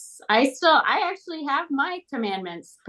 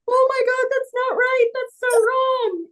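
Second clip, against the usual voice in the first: shocked realization. Retold or imitated. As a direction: gasp it out, mortified you got it wrong. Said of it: "And I was like".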